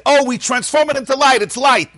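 high, bright-eyed mock voice; sing-song mockery of a glib believer; mock naive cheer. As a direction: parody the easy answer, all sunshine. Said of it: "you can't skip and say".

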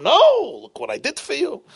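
high-pitched emphatic rebuttal, hard on the first word; indignant protest. Retold or imitated. Teacher answering an ungrateful student, indignant. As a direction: protest as if wrongly dismissed.

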